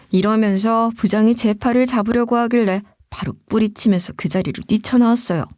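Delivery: ordinary delivery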